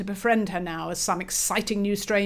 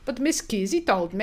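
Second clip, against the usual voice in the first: put-on Swedish accent; 2 semitones higher than usual. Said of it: "Swedish tang".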